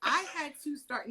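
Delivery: high, strained and close to tears; choked up. Retold or imitated. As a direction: push through as the emotion rises. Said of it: "Now I'm crying".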